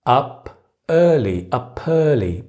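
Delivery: "up early" going from separate words to uh-pearly; linking p to early. Shown as a demonstration. Teacher building the link for learners, "up early" joined gradually. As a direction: slide the p of "up" onto "early". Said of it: "we usually connect them".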